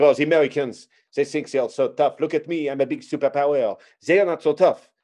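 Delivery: cartoon French accent, swaggering; hammed-up French accent; mock French. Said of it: "I would make fun of the French".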